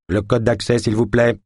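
lightly voiced synthetic system voice; even, machine-like prompt; screen reader voice. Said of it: "répondit une voix synthétique".

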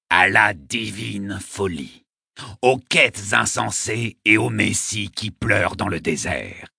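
put-on grandiloquent old poet, drawing words out; proposing a toast. A narrator's reading. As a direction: declaim it like a ceremonial toast. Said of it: "en train de porter un toast".

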